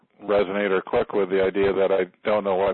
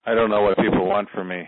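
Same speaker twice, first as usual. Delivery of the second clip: said on exhale. Shown as a demonstration. Client repeats the healer's phrase to release it, exhaling. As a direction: release the words with a long outward breath. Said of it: "exhale out through that area".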